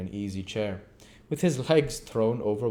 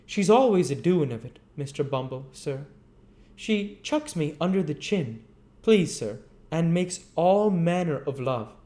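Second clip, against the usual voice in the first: higher whining insistence; higher snivelling apprentice retorting; 8 semitones higher, 4 dB louder than usual. Acted. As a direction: fling it back at her. Noah tattling to Bumble.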